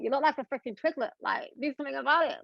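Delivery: mock scolding of her own body; scolding self-talk. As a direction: snap at your own reflection, quick and high. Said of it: "I'm like".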